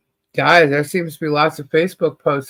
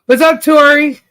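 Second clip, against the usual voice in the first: excited greeting; 9 semitones higher, 8 dB louder than usual. Real, not acted.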